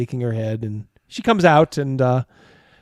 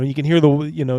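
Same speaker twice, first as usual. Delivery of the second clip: normal talking voice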